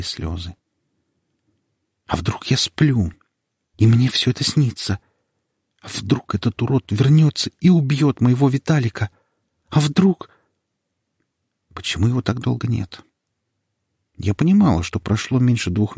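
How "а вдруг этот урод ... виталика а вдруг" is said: rising panic. Acted. Panicked inner fear.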